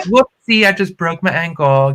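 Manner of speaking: high, hammed-up fake mishap; faked injury. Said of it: "I literally pretended to sprain my ankle".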